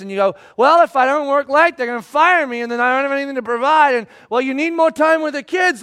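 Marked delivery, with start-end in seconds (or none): 0.6-3.9 louder, exasperated pleading; defensive argument. Retold or imitated. Arguing with wife. 4.3-5.8 higher mock-shouting wife; nagging wife.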